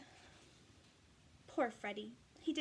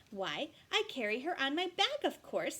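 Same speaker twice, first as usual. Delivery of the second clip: surprised crocodile; 3 semitones higher, 5 dB louder than usual. Acted. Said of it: "She was so surprised".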